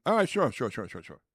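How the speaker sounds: high, loud, over-eager agreement; mock compliance. Mimics agreeing to the director.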